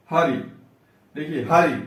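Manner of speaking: हरि with weight on ह; हरि, first syllable stressed; stress before इ. Shown as a demonstration. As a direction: press the ह of हरि before the short रि. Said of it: "यहाँ पे बल दिया जा रहा है".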